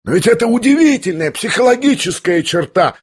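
high, ringing astonishment; sudden astounded exclamation; amazed cry. A narrator's reading. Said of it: "вскричал он вдруг, обращаясь к князю в искреннем изумлении".

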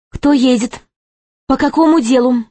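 lazy guard captain. A narrator's reading. Guard captain questions arriving carriage, lazily. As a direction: ask it with lazy officialdom. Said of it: "ленивый голос начальника караула".

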